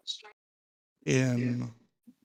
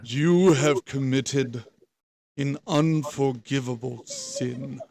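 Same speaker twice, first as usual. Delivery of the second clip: low booming entity voice; magically amplified voice; 5 dB louder than usual. Acted. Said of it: "in a low, booming voice".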